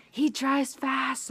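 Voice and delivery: high, stretched-out words, imitating an amazed friend; slow, emphatic marvelling; retold amazement. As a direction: draw it out in high-pitched wonder. Retold friend marvelling at fast arrival.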